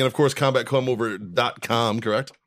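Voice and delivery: podcast ad read; advertiser mode. Acted. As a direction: slip into a sponsor plug voice. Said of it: "I just flipped into fucking advertiser mode".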